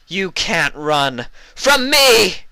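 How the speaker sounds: very high, loud, slow villain cry; menacing taunt. Acted. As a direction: drag out the threat, ringing through darkness. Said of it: "her voice echoing through the darkness".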